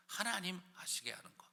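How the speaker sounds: whispered reverent aside. Real, not acted. Preacher ending the point for the congregation, whispered. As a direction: breathe it softly. Hushed closing thought.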